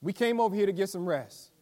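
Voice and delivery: a lightly hammed-up tired disciple pleading with Jesus; imagined disciple. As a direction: play a hungry grumbling follower, half-joking. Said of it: "I just imagine that the thinking was".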